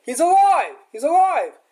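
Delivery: high, loud joyful shout of discovery; excited cry. Retold or imitated. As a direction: call out that he's alive, thrilled. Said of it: "So they say".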